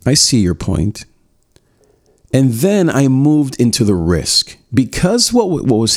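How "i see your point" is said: calm acknowledging tone; matching her tone. Shown as a demonstration. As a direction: acknowledge her evenly, no push. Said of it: "I literally said it like that".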